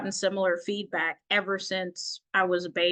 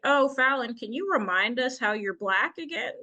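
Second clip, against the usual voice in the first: mock questioning boss; 4 semitones higher than usual. Mimicking the job's chair.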